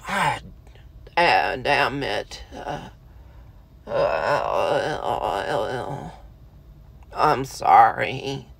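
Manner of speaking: choked-up apology. Pretend.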